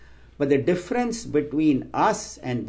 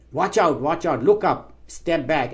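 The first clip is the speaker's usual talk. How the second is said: sudden raised urgent warning, louder and higher; urgent warning call; 5 semitones higher, 4 dB louder than usual. Retold or imitated. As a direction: call out the danger fast and sharp. Unseen voice warns the lady.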